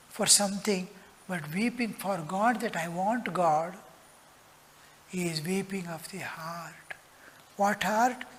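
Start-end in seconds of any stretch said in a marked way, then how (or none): 5.1-6.9 soft whisper, words barely voiced. Real, not acted. Preacher whispering about weeping of the heart. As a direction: whisper the line to the hall.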